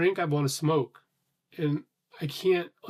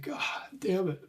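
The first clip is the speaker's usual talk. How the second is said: exasperated whispered god damn it; a fed-up whisper at the cat; whispered curse; 4 semitones higher, 6 dB quieter, slower than usual. Retold or imitated. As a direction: breathe it out under your breath, unvoiced. Muttering at the ignoring cat.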